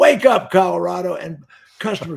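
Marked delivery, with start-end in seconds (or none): 0.0-1.2 loud, booming, full-voice shout. Retelling walking into a showroom: retelling a yell at top of voice. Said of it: "I would yell out, top of my voice".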